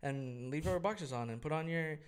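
cute petite nurse. Retold or imitated. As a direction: lightly voice a sweet little nurse. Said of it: "a cute little petite nurse".

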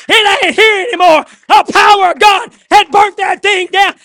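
shouted, rising revival preaching; fiery pulpit cry; preaching at full force. Acted. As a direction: preach it hard and loud to the congregation.

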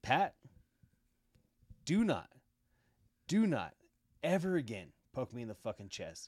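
loud, firm warning to the stepdad; retold loud threat; stern warning. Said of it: "I told him, I said".

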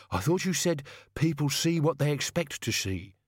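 put-on grumbling old servant. A narrator's reading. Albert continues.

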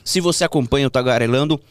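talking through a mouthful of sweets; chewing while talking, words muffled by food; mouth full. Real, not acted. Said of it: "tô falando de boca cheia". (falando de boca cheia, mastigando)

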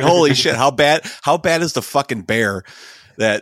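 retelling his shocked reaction to the news; loud mock shock. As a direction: blurt it out in mock disbelief. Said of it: "I was like".

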